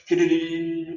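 quick rattling syllables; imitated pouring sound. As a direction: mimic oil gushing out. Imitates oil pouring into vessels.

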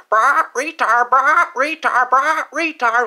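a chanted taunt in a put-on voice, slow on the middle line; mocking chickens. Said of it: "the chickens would randomly start calling me a retard".

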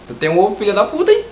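loud, fast mock indignation; mock outrage. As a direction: fire it off loud and quick.

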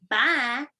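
mock Texas twang on Bye; Texas accent bye. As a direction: imitate a Texan saying Bye. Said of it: "you sounded like you were from Texas or something".

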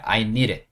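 "need it" run together as "니릿" after "I"; linked flapped sound. Shown as a demonstration. Teacher models reading for learners, "need it" linked as "니릿". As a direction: link "need it" with a tapped d. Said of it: "이렇게 읽으시면 돼요".

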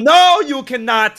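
high, loud teasing no, slowed; playful refusal. Real, not acted. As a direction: draw out the refusal as a tease. Teasing refusal to show photo.

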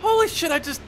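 very high, very loud ecstatic yell; real gamer scream of delight; screaming excitement. Real, not acted. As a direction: let it rip in pure thrill. Excited gaming reaction.

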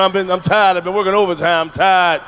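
normal talking voice

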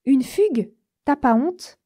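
mock telling-off from afar; grondement imaginé. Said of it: "commencé à m'engueuler de loin". (grand-mère qui gronde de loin, un peu plus fort)

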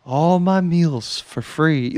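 slow, dreamy relish; starry-eyed wonder. Acted. Podcaster quoting him dreaming of the future, starry-eyed. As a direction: draw it out, savouring the dream. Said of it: "there's a star in his eye".

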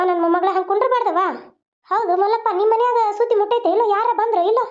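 lightly voiced old grandmother, pleading and hurt; a hint of a wounded granny begging for answers; grieving grandmother. Grandmother begging silent Sharada to speak, pleading.

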